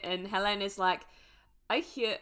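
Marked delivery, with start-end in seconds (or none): 1.7-2.2 a hint of a French accent; tentative French accent; attempted French accent. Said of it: "I'm gonna try to do a French accent".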